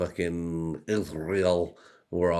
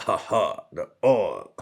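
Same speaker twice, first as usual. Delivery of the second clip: laughing; 3 semitones higher, 4 dB louder, slower than usual. Real, not acted. Laughing at own oil joke.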